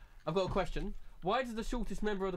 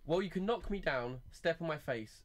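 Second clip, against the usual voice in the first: flat, even monotone reading; 3 semitones lower than usual. Shown as a demonstration. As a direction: read the lyrics with no tune, monotone. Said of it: "I'm gonna say them in a monotone voice".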